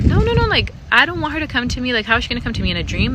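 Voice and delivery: high, loud, rushed panicked no; panicked refusal. Retold or imitated. Pleading with coworker, panicked high loud refusal. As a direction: recoil in alarm, voice shooting up high.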